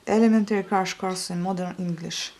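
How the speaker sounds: English title read with a French accent. Real, not acted. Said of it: "je suis désolée pour mon accent". (anglais avec un accent français)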